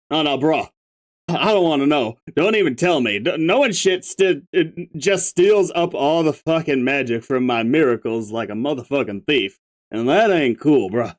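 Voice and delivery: stoner troll. Acted. Stoner figure.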